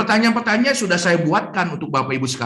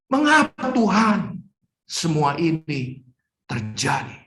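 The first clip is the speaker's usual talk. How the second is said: pleading lament; 4 semitones higher than usual. Acted. Job's anguished complaint acted out.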